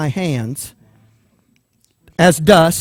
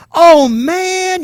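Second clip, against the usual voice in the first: high, louder mock groan of letdown; high, louder buddy groan; disappointed buddies; 12 semitones higher, 5 dB louder than usual. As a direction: whine it like a let-down friend. Buddies groan at his refusal.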